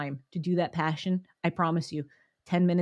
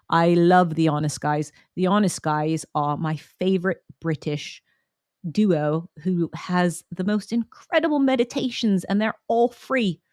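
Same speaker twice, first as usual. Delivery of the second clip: put-on light posh British accent, a touch louder; 3 dB louder than usual. Praising her favourite British duo in a light British accent. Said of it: "Did Jade just break out in a British accent?".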